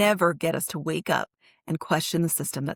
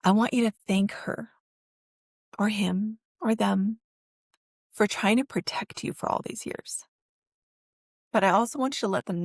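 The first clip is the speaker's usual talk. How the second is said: real emotion, trailing off into a whisper; fighting back tears; emotional; 2 semitones higher than usual. Real, not acted. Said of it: "I'm gonna get emotional again".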